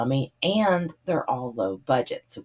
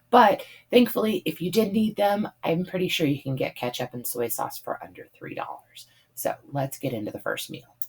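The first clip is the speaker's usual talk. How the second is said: slightly hoarse from talking all day; a worn-out, husky voice; 3 semitones higher than usual. Real, not acted. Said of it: "I probably sound a little hoarser than normal".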